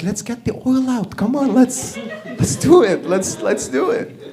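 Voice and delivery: high-pitched, hurried eagerness; eager urging. Acted. Parliament urging each other to take the oil, eager. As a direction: egg them on, repeating yourself impatiently.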